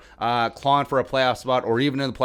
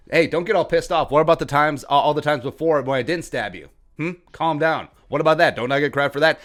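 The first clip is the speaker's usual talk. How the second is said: mock stabber. Stabber asking credit for past restraint, mock-reasonable. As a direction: talk him down like it's no big deal. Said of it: "And he's like".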